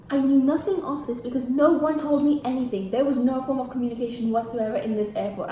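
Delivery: getting worked up; indignant, punching the words; riled up. Real, not acted. Venting about no communication at airport, riled up. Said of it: "I'm getting riled up now".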